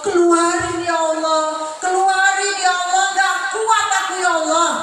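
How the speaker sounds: mock lament of the damned; acted wailing prayer for relief; wailing plea. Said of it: "yang makan menghibah meratap".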